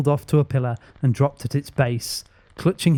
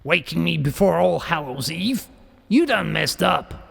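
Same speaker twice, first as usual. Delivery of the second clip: put-on higher, brash Bronx accent; a cocky Bronx tough scolding the kids; 4 semitones higher than usual. A narrator's reading. Demon doll taunting the kids who woke it, brash Bronx accent. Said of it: "Its accent was brash, like it came right out of the Bronx".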